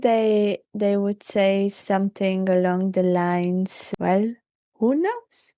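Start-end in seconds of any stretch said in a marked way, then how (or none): 4.0-5.5 high, airy dragon voice. Acted. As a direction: speak as your inner dragon. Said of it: "I like your dragon voice".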